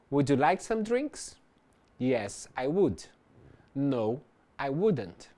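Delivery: slow, deliberate drill phrases; slow repeat-after-me drill. Shown as a demonstration. Teacher leading a repetition drill, very slow and deliberate. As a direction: say each line very slowly for students to copy. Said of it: "Então repita".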